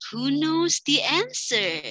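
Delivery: slow, rising teacher question; asking the class. Shown as a demonstration. Teacher pointing at class asking who knows, slow. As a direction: invite a hand up. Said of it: "Gesture kita sambil jari nunjuk".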